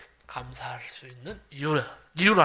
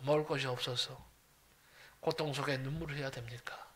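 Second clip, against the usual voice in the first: tearful prayer; 2 semitones lower than usual. Retold or imitated. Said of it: "하나님께 울면서 기도한 적이 있어요".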